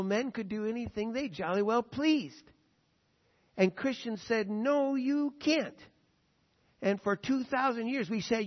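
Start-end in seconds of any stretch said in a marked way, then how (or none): 4.5-5.8 slow, higher-pitched mock prohibition; firm refusal. Acted Christian refusal to powerful men.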